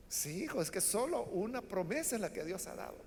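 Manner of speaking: respuesta mucho más suave y resignada; Isaac anciano, apenado. Retold or imitated. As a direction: consuela al hijo en voz baja. Anciano Isaac responde con pesar. (Isaac viejo responde suave y triste a Esaú)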